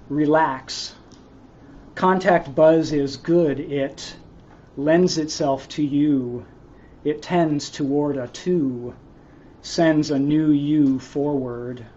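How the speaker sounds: slow, measured poem delivery; poem reading. Acted. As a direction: read it slowly, line by line, with pauses. Reads own poem aloud.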